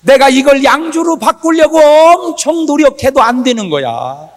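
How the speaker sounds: loud, high fervent preaching. Acted. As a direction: preach it out with fire. Preacher at full force.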